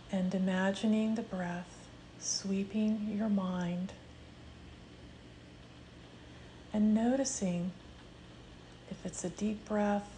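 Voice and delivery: calm meditation voice with long pauses; unhurried, measured meditation leading; guided meditation. Real, not acted. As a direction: guide them gently into the breath, leaving space between phrases. Leads a grief meditation.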